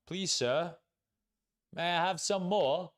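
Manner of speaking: high-pitched pleading beggar voice; meme beggar boy. Acted. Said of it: "the guy with the bowl".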